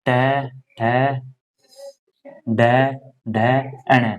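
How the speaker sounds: reciting टै ठै डै ढै slowly, one by one; slow teacher chant of the letter row; slow recitation. Shown as a demonstration. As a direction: spell the row out for students. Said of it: "अण देखो".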